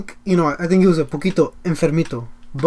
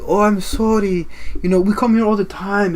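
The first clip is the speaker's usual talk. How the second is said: higher-pitched mock European accent; European accent, pleading; 4 semitones higher than usual. Customer asking the cashier for free food, pleading European accent. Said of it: "European accent".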